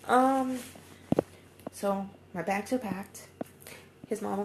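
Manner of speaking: crying through the words. Real, not acted. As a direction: voice breaking upward in tears. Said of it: "'Cause it's mostly tears".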